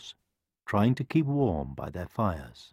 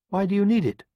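nervous hen; 12 semitones higher, 4 dB louder, faster than usual. A narrator's reading. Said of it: "feeling distinctly nervous".

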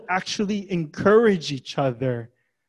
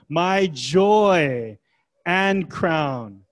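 emphatic, lingering joy; joyful; much slower than usual. Acted. Preacher repeats Paul's words about his church, joyful. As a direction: let joy and crown ring out with pride. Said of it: "That is joy".

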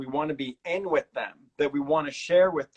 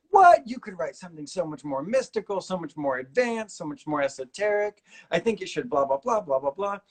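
disappointed students; 3 semitones higher than usual. Retold or imitated. Students complaining to the author about a plain book title, mock disappointed. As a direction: imitate let-down students with exaggerated disbelief. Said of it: "all of my students were so disappointed".

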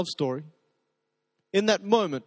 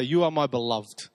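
tender; 4 semitones lower than usual. Shown as a demonstration. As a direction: say it gently, like a secret. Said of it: "it sounds like it was something they'd say".

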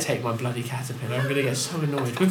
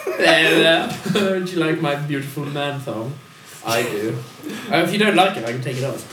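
lightly Cockney, flirty; Cockney accent. Pretend. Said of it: "That's him doing his Cockney accent".

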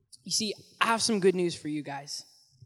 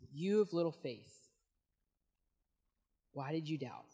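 gentle Jesus rebuke; 5 semitones lower, 11 dB quieter than usual. Acted. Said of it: "And Jesus says".

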